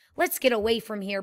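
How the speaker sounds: ordinary delivery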